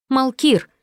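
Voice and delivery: calling out his name. A narrator's reading. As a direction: call his name to stop him. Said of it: "позвала я".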